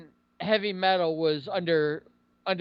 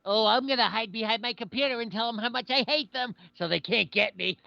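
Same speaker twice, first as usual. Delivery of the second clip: higher put-on mocking voice; mocking online coward; 3 semitones higher than usual. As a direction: mimic a gloating keyboard warrior, pitched up.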